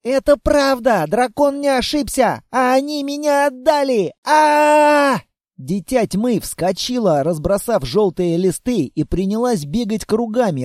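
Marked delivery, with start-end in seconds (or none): 0.0-5.2 put-on upset girl.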